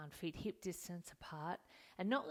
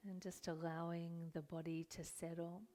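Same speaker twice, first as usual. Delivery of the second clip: calm, unhurried meditation guidance with long pauses; guided meditation. Acted. Yoga teacher settling students into their seats, guided meditation. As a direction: ease them into stillness, leaving room to breathe.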